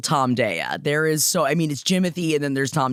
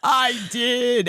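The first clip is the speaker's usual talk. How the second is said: higher, very slow, a hint of a sob; mock teary; 7 semitones higher, much slower than usual. Replying to gushing fans, mock-emotional and slow. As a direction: answer as if moved to tears. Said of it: "And I'm just like".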